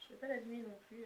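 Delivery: ordinary talk, nothing marked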